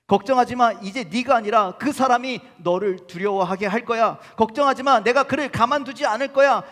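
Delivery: put-on a furious dad vowing to defend his child; father God answering his daughter, loud and fierce; protective father. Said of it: "그래서 뭐라고 그러냐?".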